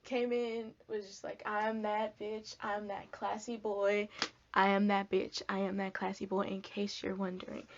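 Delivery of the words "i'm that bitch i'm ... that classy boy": sassy strut. Retold or imitated. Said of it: "I went in like this".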